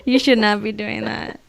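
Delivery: put-on loud, slow kid scolding back; loud toddler lecture.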